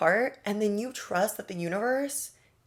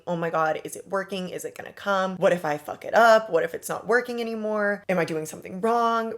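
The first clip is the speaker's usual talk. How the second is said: fretful rush of worried questions, the fuck-it-up line louder; anxious inner voice; 4 dB louder than usual. Retold or imitated. Listener imitating her own on-edge thoughts, anxiously. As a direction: voice the nervous doubts of an anxious manifester. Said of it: "on edge all the time thinking".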